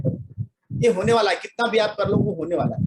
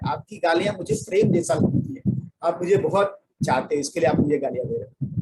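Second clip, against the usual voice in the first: sweet calm reply. Shown as a demonstration. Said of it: "बोलना".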